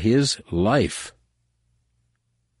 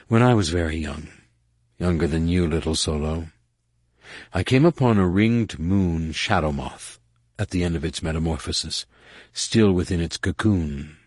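distant and a little sad. Acted. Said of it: "she said distantly, a little sadly".

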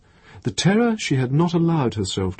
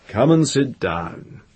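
kind; 3 semitones higher, slower than usual. A narrator's reading. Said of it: "His voice was kind".

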